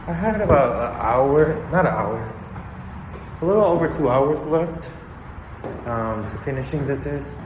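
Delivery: breathless after climbing stairs; out of breath, talking between breaths. Real, not acted. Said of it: "I'm, like, out of breath".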